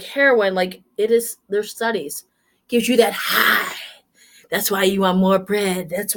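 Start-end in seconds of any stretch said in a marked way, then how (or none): 2.7-3.7 whispered aside. Acted. Secretive aside.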